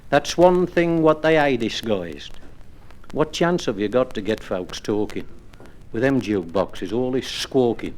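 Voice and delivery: rhythmic, wistful recital of verse; poem recitation. Acted. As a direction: recite it like a music-hall monologue. Recited comic poem about pubs.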